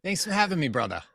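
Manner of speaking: Boston accent. Shown as a demonstration. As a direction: lay the Boston accent on thick. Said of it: "I should amp up my Boston accent now".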